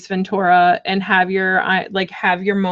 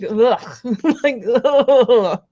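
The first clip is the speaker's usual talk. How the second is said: annoyed ugh; 4 semitones higher, much slower than usual. Real, not acted. Laughing disgust.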